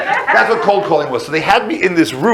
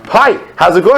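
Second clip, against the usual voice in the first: lightly voiced HR lady, a little higher; 4 semitones higher, 4 dB louder than usual. HR lady greeting the new intern, lightly acted greeting.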